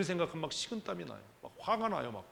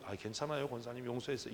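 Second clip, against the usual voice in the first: fake forgiveness; 4 dB quieter than usual. Shown as a demonstration. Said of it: "이러고 나서 계속 미움을 갖는다면".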